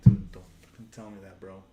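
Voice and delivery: loud, furious retold yell at the clerk; angry shout. Angry customer yelling at the GameStop clerk over a refund. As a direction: blow up at him down the phone. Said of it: "I got so mad".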